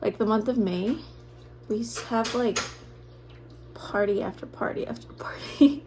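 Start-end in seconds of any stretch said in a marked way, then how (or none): 3.7-5.8 laughing whisper. Real, not acted. Laughing about many parties.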